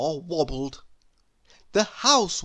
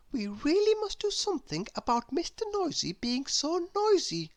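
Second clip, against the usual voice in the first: baker woman voice; 10 semitones higher, 5 dB quieter than usual. Acted. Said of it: "she said".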